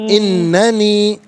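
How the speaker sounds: اننی said very slowly with a long doubled n; drawn-out correction. Shown as a demonstration. Teacher repeats اننی very slowly for caller. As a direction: drag out the nn of اننی. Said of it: "انانی نہیں".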